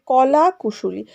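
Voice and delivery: "কলা কুশলী" slowly as two separate words; split by meaning. Shown as a demonstration. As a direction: leave a gap between "কলা" and "কুশলী". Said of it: "অর্থের দিকে তাকিয়ে". ("কলা কুশলী" দুটি শব্দে আলাদা করে)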